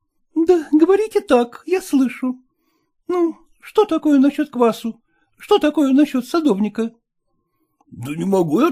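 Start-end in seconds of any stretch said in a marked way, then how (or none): none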